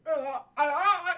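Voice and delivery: scrambling panicked gasps, imitated; hammed-up frantic grunting; panicked grunts. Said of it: "that panic, Arnold".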